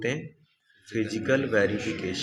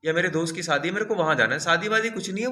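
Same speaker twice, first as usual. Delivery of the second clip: brushing off auditor; 5 semitones higher than usual. Retold or imitated. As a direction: wave away the worry like a slick auditor. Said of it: "वो बोलेगा".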